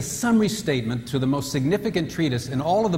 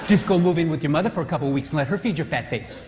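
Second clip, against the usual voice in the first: offended wife; 3 semitones higher than usual. Retold or imitated. Wife snapping at her husband over the meal, indignant. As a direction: take offence and hit back hard.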